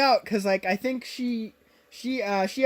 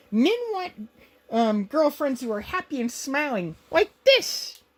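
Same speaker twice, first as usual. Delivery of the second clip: fake cheerful; 4 semitones higher than usual. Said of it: "And she puts on a fake smile".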